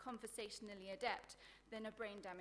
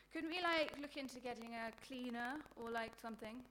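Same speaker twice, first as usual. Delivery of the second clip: put-on vacant girl floating a bright idea; mimicking the roommate; 2 semitones higher, 5 dB louder than usual. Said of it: "she said to me".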